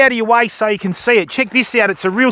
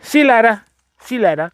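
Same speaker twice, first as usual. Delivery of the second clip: high cheeky duck farewell sinking back to his own voice; mock the duck's goodbye, fading down; voicing the duck; 5 semitones higher than usual. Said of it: "the duck's just gone".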